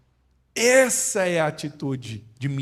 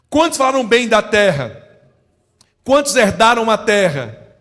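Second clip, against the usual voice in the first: loud call-and-response preaching, higher; preaching at full force; 5 semitones higher, 12 dB louder than usual. Acted. Preacher quizzing the church, loud and driving. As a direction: drill the congregation with ringing questions.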